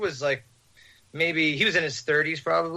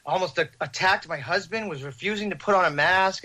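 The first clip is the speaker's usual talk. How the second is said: imitated exasperated woman; 5 semitones higher than usual. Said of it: "this woman walks around the corner".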